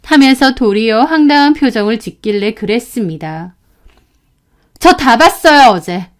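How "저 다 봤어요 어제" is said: angry accusation. Retold or imitated. Student accusing teacher.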